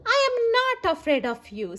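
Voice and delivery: put-on bold old lady. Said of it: "said the little old lady".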